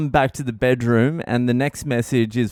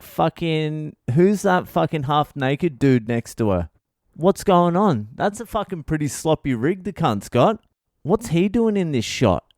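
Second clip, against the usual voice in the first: shocked outburst; 5 semitones higher than usual. Retold or imitated. Shocked at wife's video call.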